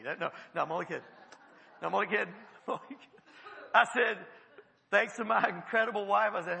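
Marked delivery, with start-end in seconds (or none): 1.8-3.2 laughing through the words; joking. Real, not acted. Preacher taking back a joke to the congregation, laughing. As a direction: chuckle it off as a joke.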